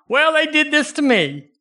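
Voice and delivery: high mock whine of a grumbling believer; whiny complainer. Preacher mocks a grumbling church member, high whining complaint. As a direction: whine it like someone feeling wronged.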